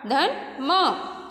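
teacher stretching a letter; drawn-out sounding. Shown as a demonstration. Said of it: "धन आ की मात्रा".

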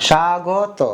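"স্বাগত" said as shagoto, with a sh sound; উচ্চারণ দেখানো. Shown as a demonstration. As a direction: model the word "স্বাগত" clearly. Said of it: "তো উচ্চারণটা করো তো". (প্রমিত উচ্চারণে "স্বাগত")

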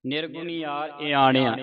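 ਈਆਣਿਆ with retroflex ṇ; retroflex N, wrong take. Shown as a demonstration. Teacher quotes congregations reading at home, retroflex N. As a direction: curl the tongue back on the N in ਈਆਣਿਆ. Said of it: "ਇੱਥੇ ਨਾਣਾ ਲਾ ਕੇ ਉਚਾਰਨ ਕਰਦੀਆਂ".

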